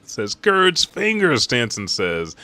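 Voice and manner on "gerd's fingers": higher, louder and slower cry of horror; shocked outcry. Retold or imitated. Stanson says it seeing the cut fingers, aghast. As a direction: exclaim it slowly, pitched up.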